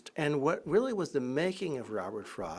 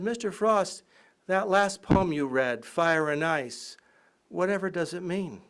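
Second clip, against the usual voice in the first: put-on timid girl asking; 4 semitones higher than usual. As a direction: ask shyly and carefully. Girl voiced asking Frost.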